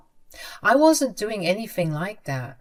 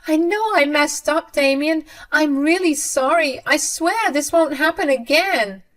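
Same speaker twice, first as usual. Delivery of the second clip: much higher, louder pleading voice; desperate begging mother; 8 semitones higher, 4 dB louder than usual. A narrator's reading. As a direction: beg frantically, pitch pushed way up. Mother begs son and wife.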